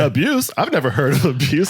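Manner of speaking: high, mock-naive disbelief; mocking mom. Son mimicking his mother playing dumb, high. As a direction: play dumb like a wide-eyed innocent.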